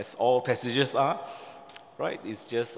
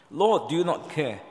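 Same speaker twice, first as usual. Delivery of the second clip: agitated complaint; 5 semitones higher, 4 dB louder than usual. Acted. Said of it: "she was raising her voice".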